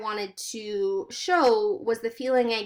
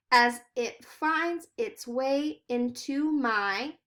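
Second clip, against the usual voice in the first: slow poem reading; slower than usual. Shown as a demonstration. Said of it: "Next, he has cold and yummy".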